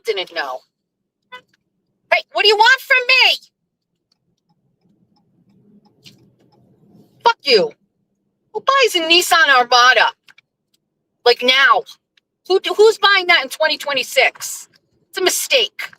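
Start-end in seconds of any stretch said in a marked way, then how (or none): 2.1-7.7 much higher-pitched indignant complaint; exasperated protest. Real, not acted. Driver calling out another motorist, exasperated. 8.5-15.9 high-pitched, scornful disbelief; incredulous mockery. Real, not acted. Driver heckling a Nissan owner, incredulous. Mocking another driver's car.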